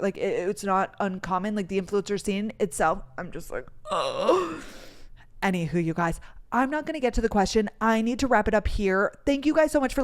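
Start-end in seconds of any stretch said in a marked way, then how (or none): 3.9-4.6 exasperated "ugh"; disgusted groan. Retold or imitated. Fed up with the influencer scene, exasperated groan. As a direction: groan as if fed up with them all.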